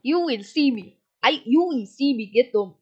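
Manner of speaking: put-on African accent, solemn vow; playful African accent. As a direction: swear revenge in a mock African accent. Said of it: "I'm not gonna talk my African accent".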